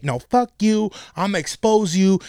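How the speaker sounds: retold fit. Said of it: "she was having a fucking fit".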